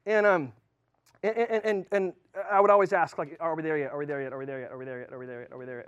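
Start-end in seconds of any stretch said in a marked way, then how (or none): 3.4-5.9 repeated whine, fading softer each time; a bored child pestering from the back seat; nagging kid. Retold or imitated. Kid asking dad over and over, fading whine.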